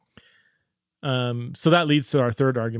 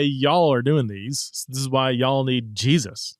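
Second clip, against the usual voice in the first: put-on slow Arkansas preacher accent; slower than usual. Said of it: "to get my Arkansas accent on".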